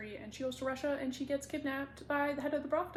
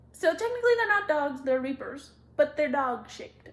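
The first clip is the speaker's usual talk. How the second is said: gushing excitement; 4 semitones higher, 9 dB louder than usual. Real, not acted. Gushing over dog-shaped reapers.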